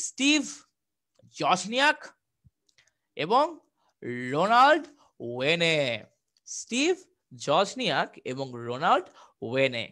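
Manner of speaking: slow and deliberate, name by name; dictating names for students to remember; slow, for memorising. Shown as a demonstration. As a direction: say the names slowly so they stick. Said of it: "নামটা একটু kindly মনে রাখতে হবে".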